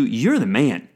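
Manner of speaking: light, quick "You're the man," as praise; casual compliment. Shown as a demonstration. Friend praising you, casual and upbeat. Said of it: "usually if somebody told you".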